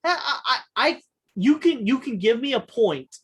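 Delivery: retold eager offer. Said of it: "I was just like".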